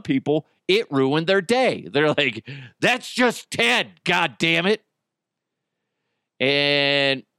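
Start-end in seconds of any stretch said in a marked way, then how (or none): 2.8-4.8 upset commenter. Retold or imitated.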